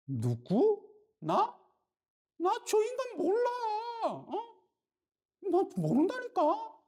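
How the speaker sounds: very high, defensive denial; panicked denial. Retold or imitated. Peter tells the crowd he doesn't know Jesus, high and panicked. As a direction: squeak out that you never knew him.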